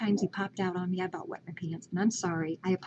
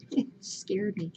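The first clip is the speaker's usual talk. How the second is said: laughing; 3 dB quieter, slower than usual. Real, not acted. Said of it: "It just, it scared me".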